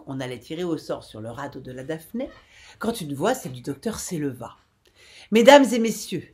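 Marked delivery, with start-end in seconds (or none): 5.3-6.3 calling out. A narrator's reading. Doctor addresses the raft survivors.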